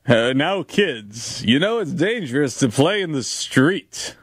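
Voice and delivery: cop voice. Pretend. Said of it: "Cop voice".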